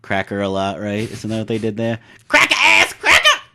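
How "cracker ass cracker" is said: much higher, louder, slow hammed-up stand-up comic shout, laughing; stereotypical comedian. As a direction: ham up a Def Comedy Jam stage bit. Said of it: "very stereotypical way of speaking".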